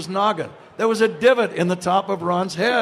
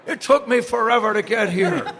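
mock-furious grumble, higher; Ron Santo, furious; 4 semitones higher, 3 dB louder than usual. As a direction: imitate an exasperated complaint. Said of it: "He's furious at me".

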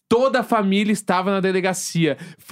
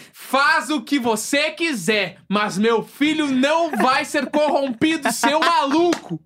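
angry shouting mother; 5 semitones higher than usual. Retold or imitated. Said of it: "ela começou a fazer um barraco".

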